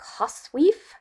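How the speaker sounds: "hosweef" drawn out as HOSS-weef; dialect pronunciation. Shown as a demonstration. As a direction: say "hosweef" slowly, short o then long ee. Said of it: "how the word was pronounced".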